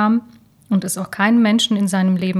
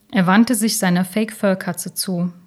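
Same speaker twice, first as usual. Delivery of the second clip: ordinary delivery, nothing marked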